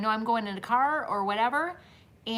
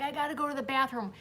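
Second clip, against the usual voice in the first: quick, higher imitation of a child; mock crying boy; 4 semitones higher, faster than usual. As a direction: mildly mimic an urgent little boy. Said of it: "he's crying and he's screaming".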